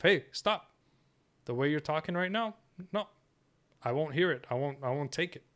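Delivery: stern opening, then settle into firm refusal. Pretend. Man stopping someone's disrespectful talk, firm. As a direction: firmly refuse to put up with it. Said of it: "And I'm firm in that".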